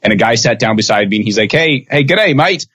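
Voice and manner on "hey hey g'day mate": a light imitation of an Australian bloke's g'day; a mock Australian accent, pitched a bit higher; a cheery, lightly done Australian g'day; Australian greeting. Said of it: "I don't know if that's how he sounded".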